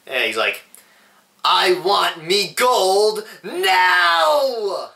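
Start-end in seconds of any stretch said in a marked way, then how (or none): 1.4-4.9 high Irish leprechaun shout, drawn out; imitated Irish leprechaun yelling; silly Irish accent. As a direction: holler it slowly in a hammy Irish accent. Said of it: "silly Irish accent".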